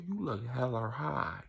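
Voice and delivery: slow, stretched-out words, pitched a bit up; drawn-out imitation. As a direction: imitate him dragging out the words. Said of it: "he said it just like this".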